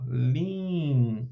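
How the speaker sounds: slow, syllable by syllable línguas: lín-guas; split into syllables. Shown as a demonstration. Teacher showing students the syllables, slow and deliberate. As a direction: spell out línguas slowly, one syllable at a time. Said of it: "a gente separa assim".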